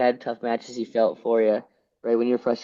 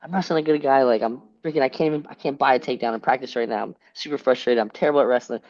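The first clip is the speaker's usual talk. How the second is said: worked up; 2 semitones higher than usual. Retold or imitated. Wrestler venting to coach before a match, mildly worked up. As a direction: re-enact fretting to a coach, a touch agitated. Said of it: "I'm getting all worked up".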